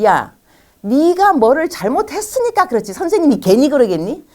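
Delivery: scolding mother. Acted. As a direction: act out a mum telling off her son. Mother scolding child, acted.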